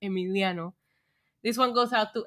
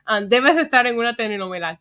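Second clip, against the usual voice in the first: whisper; 4 dB louder, faster than usual. Real, not acted. Teasing donor in Spanish.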